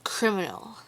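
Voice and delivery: "criminal" set apart after a pause and stressed; emphasis on CRIMINAL. A narrator's reading. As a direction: lean mockingly on the word "criminal". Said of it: "threw an emphasis on the word".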